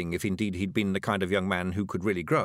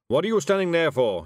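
loud, higher, angry demand; 7 semitones higher, 6 dB louder than usual. Acted. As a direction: bark at the hired wizard. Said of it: "he demanded".

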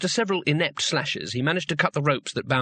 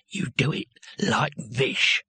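squelchy voice; 2 semitones lower, slower than usual. Acted. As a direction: relish it before the charge. Captor before charging.

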